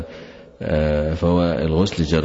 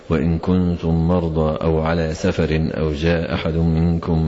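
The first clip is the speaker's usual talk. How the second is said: Quran recitation. Acted. Sheikh reciting the verse to his students, measured chant. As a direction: chant each phrase evenly, unhurried.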